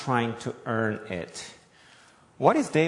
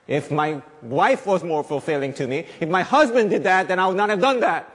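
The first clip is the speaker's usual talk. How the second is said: a touch higher and louder whine; mock blamer; 5 semitones higher, 5 dB louder than usual. Preacher mocking someone blaming their spouse, lightly whiny. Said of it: "You can't blame your spouse".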